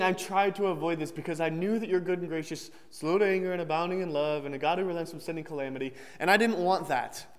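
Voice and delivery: mocking, sarcastic quote of the verse; bitter sarcasm thrown back at God; sarcastic Jonah. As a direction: sneer the words back at God. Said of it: "Can you sense the sarcasm".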